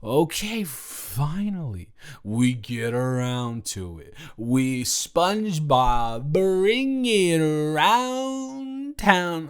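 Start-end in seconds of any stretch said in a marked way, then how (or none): 4.4-9.5 slow, drawn-out SpongeBob quote. Retold or imitated. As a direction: stretch it out like the cartoon. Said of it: "I quote media".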